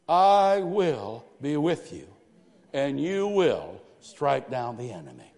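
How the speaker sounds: measured divine assurance, each phrase drawn out; God's solemn promise. Retold or imitated. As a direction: give the promise slowly, sinking in pitch. God's promise, preacher acts it.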